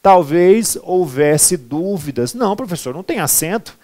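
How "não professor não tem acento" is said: mock student answer. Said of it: "imagined student answer".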